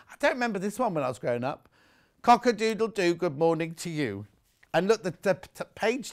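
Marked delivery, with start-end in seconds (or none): 2.2-4.2 singsong rooster call; reading to a toddler. Acted. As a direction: crow it playfully. Reads the rooster page.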